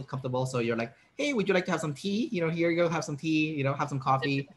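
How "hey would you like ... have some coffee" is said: welcoming host. Retold or imitated. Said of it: "So you're trying to make them feel good".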